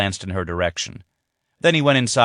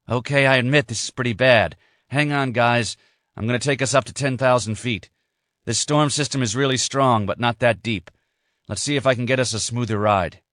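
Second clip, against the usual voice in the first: lightly raised, steady pilot voice; pilot calming his passengers; 4 semitones higher than usual. Acted. Pilot reassures his men in the storm, lightly voiced steady calm. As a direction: keep the crew calm while fighting the storm.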